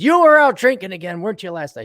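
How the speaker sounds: high accusing wife voice; nagging wife. Acted. Wife accusing her husband of drinking, voiced high. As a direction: scold him like a suspicious wife.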